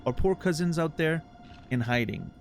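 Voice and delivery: grandiose flea circus showman. Acted. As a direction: plead like a grand ringmaster. Voices flea master dialogue.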